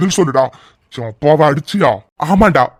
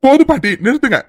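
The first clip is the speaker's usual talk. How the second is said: pleading shout; 9 semitones higher than usual. Acted. Boy shouts at grandmother to stop.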